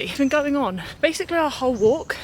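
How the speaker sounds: panting after a big hill; words pushed out between breaths. Real, not acted. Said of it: "sorry, I'm so out of breath".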